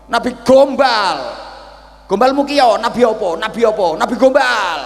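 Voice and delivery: high, loud furious insults; cursing. Acted. Old man cursing Musa as a fake prophet, furious. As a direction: curse the prophet with contempt. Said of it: "Misuh-misuh".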